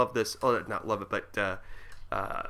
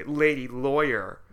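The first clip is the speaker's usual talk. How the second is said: mocking repeat; slower than usual. Shown as a demonstration. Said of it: "rude and sexist thing to say".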